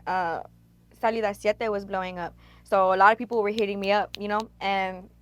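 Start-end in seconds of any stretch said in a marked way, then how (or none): 2.7-5.1 talking around a cigar in her mouth; words muffled by a smoke held in the lips; mouth full. Real, not acted. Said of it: "sorry, I have fucking backwood in my mouth".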